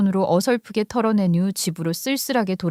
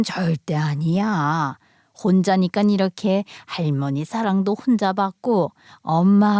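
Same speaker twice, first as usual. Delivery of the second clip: reassuring grandmother. Acted. Grandmother reassures her only granddaughter, soothing. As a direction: comfort her kindly.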